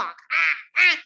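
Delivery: two open cawing cries; loud crow caw. Acted. Crow announces himself to the world, cawing. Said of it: "जोर जोर से चिल्लाऊंगा".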